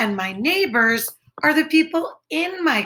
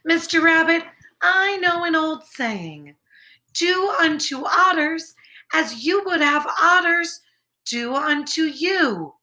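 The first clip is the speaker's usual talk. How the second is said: lightly voiced friendly otter, higher; 4 semitones higher than usual. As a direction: explain the saying kindly, a bit higher. Otter quotes old saying.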